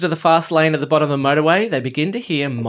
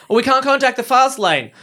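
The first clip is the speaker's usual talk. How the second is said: higher, exasperated official; mock character voice; 8 semitones higher than usual. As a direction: play the pompous official refusing. Voicing Doctor Who characters.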